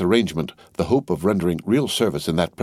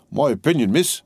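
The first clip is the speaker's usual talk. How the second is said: higher, earnest common man; lightly voiced rough servant; Jerry Cruncher; 5 semitones higher than usual. A narrator's reading. Cruncher answers Miss Pross loyally, earnest.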